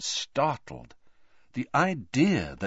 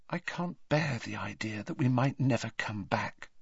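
softly, quieter and sad; 3 semitones higher, 7 dB quieter than usual. A narrator's reading. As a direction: say it gently under the breath. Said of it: "she said softly".

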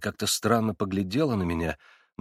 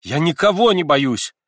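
higher, louder and slow, defiant; irritated outburst; 7 semitones higher, 8 dB louder than usual. A narrator's reading. Girl denying her fear to the narrator, irritated defiance. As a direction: fling it back at him. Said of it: "с каким-то раздражением в голосе".

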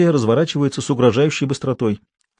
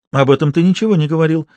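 playful; 5 semitones higher than usual. Acted. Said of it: "игриво заметила она".

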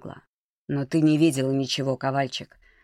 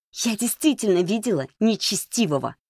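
high, insistent cry without much volume; cried out; 6 semitones higher than usual. A narrator's reading. Маришка insisting she saw the unholy one, crying out. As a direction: raise the pitch in heated protest. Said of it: "крикнула она и зашипела".

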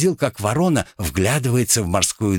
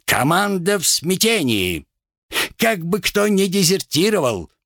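frantic crow captain; 12 semitones higher than usual. Pretend. Rat acts the captain fearing desertion, high and alarmed. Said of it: "голосом капитана Вороны".

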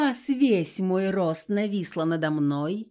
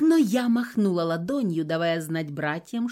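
usual speaking voice

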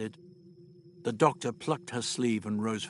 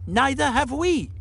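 high, louder punchline; cheeky old Doctor; 13 semitones higher, 5 dB louder than usual. Acted. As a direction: land it with impish glee. Doctor answers the Monoid.

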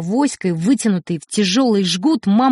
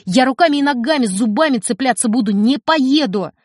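put-on boy defying his mother; defiant; 3 semitones higher than usual. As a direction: dig in and refuse.

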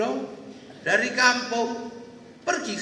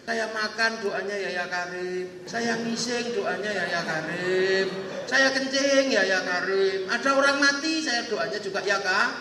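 acted crying. Pilgrim begging to be taken along to heaven, tearful. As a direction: keep up a mock-tearful singsong plea. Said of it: "Nangis ini ya Karim".

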